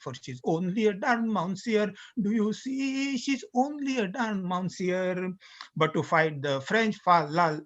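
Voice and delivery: lightly voiced boastful British sailor; sea-song recitation.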